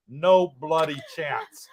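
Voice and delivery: slow, mock English accent; lightly hammed-up British saying in an English accent. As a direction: put on your best English accent. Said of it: "Was that your English accent?".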